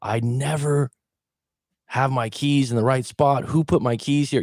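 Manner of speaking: frustrated self-talk, pitch rising; frustrated, resisting. Retold or imitated. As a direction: complain that someone moved them. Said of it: "Instead of going".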